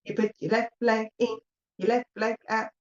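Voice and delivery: put-on light Cockney accent on a singalong; a hint of Cockney, half sung. Medium voicing spirits doing the hokey cokey in a light Cockney accent. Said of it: "I've got a bit of a Cockney accent going on there".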